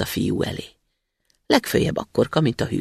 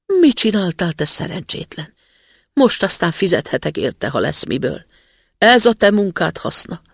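louder, exasperated telling-off; scolding father; 5 semitones higher, 5 dB louder than usual. A narrator's reading. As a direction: scold the son for the ruined axe. Father scolds careless son. (a szidó apa, hangosabban)

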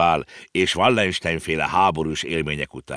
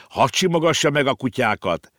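pleading shout; 8 semitones higher than usual. A narrator's reading. Konrád begs his uncle to let him pet the dogs: pleading shout. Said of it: "kiabált Konrád".

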